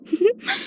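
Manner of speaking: soft chuckle. Acted. Small chuckle between remarks.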